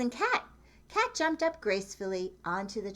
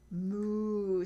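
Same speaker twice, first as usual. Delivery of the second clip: cow moo. Acted. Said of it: "said Cow".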